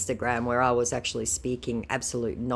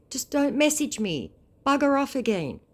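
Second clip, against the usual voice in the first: mock high dismissal; 11 semitones higher, 3 dB louder than usual. Telling scammer off.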